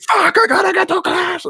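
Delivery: high frantic exclamation; panicked outburst. Retold or imitated. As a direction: blurt it out in a rush of panic. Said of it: "I'm like".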